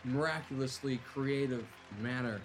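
lively, dramatic scene setting; game master narration. A narrator's reading. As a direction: narrate the action like an epic tale. Game master narrates the arena action.

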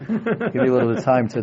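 chuckling self-mockery; laughing through words. Father joking to friends about photos, laughing. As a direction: laugh while making the excuse.

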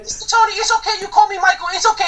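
high, nervous Miguel voice; stage fright. Acted. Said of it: "I'm so nervous right now".

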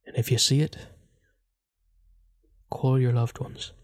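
halting, portentous Irish accent; put-on Irish accent. Shown as a demonstration. Host giving a banshee theory, Irish accent. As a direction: pause between phrases, in Irish accent. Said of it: "give you my theory in an accent".

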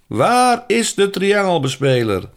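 veel hoger en luider uitgeschreeuwd; schreeuwende dirigent. Acted. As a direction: stop het orkest met een schreeuw. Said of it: "schreeuwde de dirigent". (dirigent schreeuwt het orkest stil)

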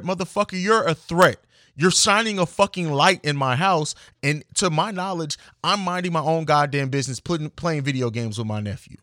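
angry outburst at the officer, pushing volume up; fired up. Real, not acted. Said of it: "I know I'm getting fired up".

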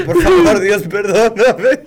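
very high, loud, slow wailing plea; hammed-up tearful plea to God; mock crying prayer. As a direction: beg God like a sobbing kid. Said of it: "Beto estaba llorando".

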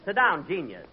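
ordinary talk

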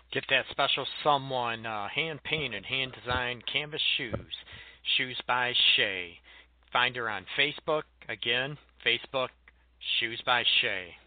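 slow, deliberate radio ad read; live ad read. Acted. Radio host reading a sponsor ad, slow promo voice. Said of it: "play an ad for you".

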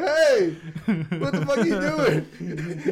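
half-laughing mock outrage; mock shocked friend. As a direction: play the shocked Hollywood friend. Retold Hollywood friend reacting.

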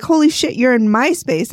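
acted startle, then a complaint on "my space"; mock startled ghost. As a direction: play a ghost surprised by an intruder. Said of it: "the ghosts are like".

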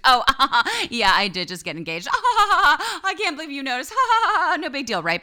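high giggly fake-modest bride; newly engaged girl showing off her ring, high and laughing; mock humblebrag. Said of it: "And she's like".

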